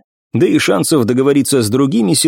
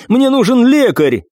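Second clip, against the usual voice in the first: desperate plea; 11 semitones higher than usual. Acted. Wounded man begging.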